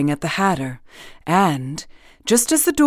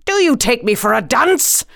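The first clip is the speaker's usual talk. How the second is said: higher-pitched, irritated royal challenge; sharp; 4 semitones higher than usual. Acted. King challenging the Hatter, sharp and irritated. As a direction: snap it with rising pitch. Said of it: "said the king sharply".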